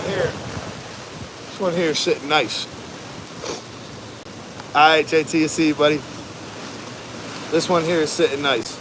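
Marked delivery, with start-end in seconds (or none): 4.8-8.7 shouting over wind. Real, not acted. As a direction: raise your voice over the storm. Calling out during hurricane live.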